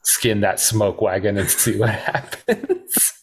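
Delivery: slow, relishing movie quote breaking into a laugh; lightly mock-serious, slow dare; drawn-out quote. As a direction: draw the line out, laughing near the end. Relishing the favorite movie line again.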